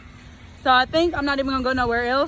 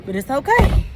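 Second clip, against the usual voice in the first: breathless after walking; out of breath; 2 semitones higher than usual. Real, not acted. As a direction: catch your breath while talking. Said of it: "Y'all see I'm a little out of breath".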